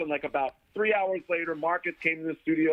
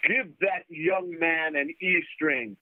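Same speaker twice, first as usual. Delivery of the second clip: commanding stranger's voice; 3 semitones higher than usual. Retold or imitated. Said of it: "comes this voice".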